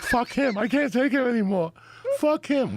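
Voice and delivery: high, loud, laughing; woman fleeing her employer, laughing and high; laughing defiance. Retold or imitated. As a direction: cackle it out, giddy and free. She runs out laughing.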